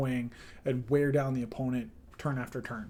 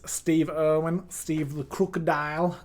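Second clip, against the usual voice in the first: put-on terrible Australian accent; 2 semitones higher, 3 dB louder than usual. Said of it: "That's a terrible Australian accent".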